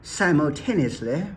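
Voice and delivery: lightly put-on British accent on "Simultaneously"; a playful, understated British "Simultaneously". Shown as a demonstration. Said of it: "every now and then I have to do my British accent".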